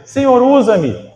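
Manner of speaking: slow, drawn-out plea to God; imitated prayer plea. Worshipper asks God to be used, imploring. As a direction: cry it out slowly as a prayer. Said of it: "Você não orava e dizia".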